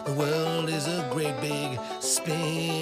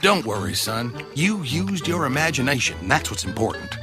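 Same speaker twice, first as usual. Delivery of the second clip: reassuring father; 6 dB louder than usual. Acted.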